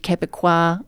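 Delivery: attempted French pronunciation; a clumsy stab at a French accent; lightly French-accented, badly done; terrible French accent. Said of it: "with my terrible French accent".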